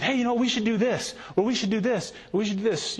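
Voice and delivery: a volunteer pitching ideas to the pastor, mock eager. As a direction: imitate someone pitching plan after plan. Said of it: "will come to you with".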